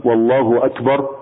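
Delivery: والله أكبر said with a leading waw; added waw. Shown as a demonstration. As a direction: put a waw before الله: والله أكبر. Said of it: "بأن يقول". (والله أكبر بزيادة واو في أوله)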